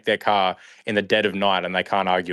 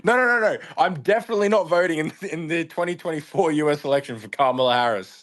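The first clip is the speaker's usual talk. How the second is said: high, hammed-up insistent denial; mock insistent denial; 6 semitones higher than usual. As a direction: deny it in a squeaky fake American voice. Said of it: "He's like".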